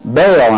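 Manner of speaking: "Baal" set apart as a firm, emphatic single word; stress on Baal. Real, not acted. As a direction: land squarely on "Baal". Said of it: "I'm emphasizing the word Baal".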